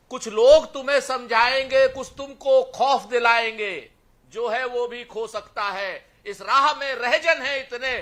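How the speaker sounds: ringing, declaimed verse; poem recitation. Acted. Panelist reciting lines for his fellow debaters, poetic declamation. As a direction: recite it line by line to an audience.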